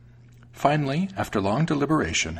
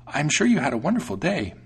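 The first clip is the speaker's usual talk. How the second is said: higher-pitched, lilting mouse voice; welcoming mouse; 6 semitones higher than usual. A narrator's reading. Mouse greets returning cat.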